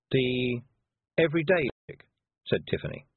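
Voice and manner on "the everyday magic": "magic" finished with a separate, clicked K; pause, then say "magic" with an overdone hard K; "everyday magic" deliberately, the last K popped; exaggerated final K. A narrator's reading. Copying the spelt-K magic.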